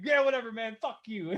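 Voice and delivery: amused, hammed-up huffy retort; mock annoyed brush-off. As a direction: dismiss them in retold annoyance. Voices the friend's annoyed brush-off.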